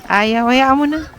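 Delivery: loud, slow, resigned "let it be"; giving up. Real, not acted. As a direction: drag it out loud and give up. Giving up on feeding.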